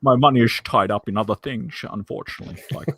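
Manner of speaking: Sean Connery impression. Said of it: "That's a great Sean Connery accent".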